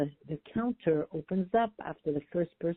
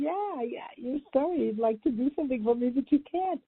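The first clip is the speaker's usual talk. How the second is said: higher, gentle, understanding reply; compassionate echo; 6 semitones higher than usual. Retold or imitated. Traveler echoing the apologizing clerk, compassionate and gentle. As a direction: say it back with real compassion. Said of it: "repeat them from a place of deep compassion".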